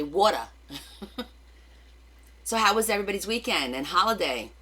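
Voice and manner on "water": "water" as WAW-der, the Jersey way; Jersey pronunciation. Shown as a demonstration. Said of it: "we say water".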